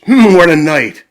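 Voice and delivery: high excited critter voice; mole voice. Acted. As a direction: exclaim about the storm, wide-eyed. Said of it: "The mole mutters".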